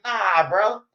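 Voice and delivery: high, laughing disbelief. Retold or imitated. Telling friend he's out of line, high and laughing. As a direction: laugh at how crazy he sounds.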